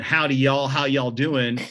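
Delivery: imitated Southern hospitality accent. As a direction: give it a folksy Southern twang. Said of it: "growing up in the South".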